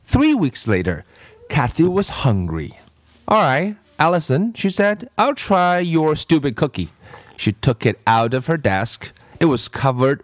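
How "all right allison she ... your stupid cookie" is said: put-on high, reluctant little-girl voice; grudging bratty child, pitched up. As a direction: give in grudgingly.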